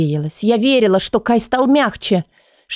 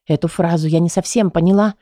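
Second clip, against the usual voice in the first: plain reading voice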